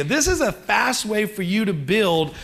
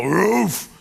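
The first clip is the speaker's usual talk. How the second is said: lazy dog bark; 4 dB louder than usual. Retold or imitated. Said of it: "wake up and go".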